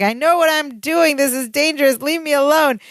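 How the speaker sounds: a touch of exasperated warning; mild agitation. Retold or imitated. Retelling Larry being tickled with a gun, mild agitation.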